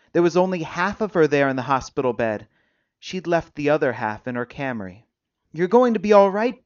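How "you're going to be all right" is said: higher and louder, insistent comfort; urgent reassurance. A narrator's reading. Visitor to injured patient, urgently reassuring. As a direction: press the reassurance on a frightened listener.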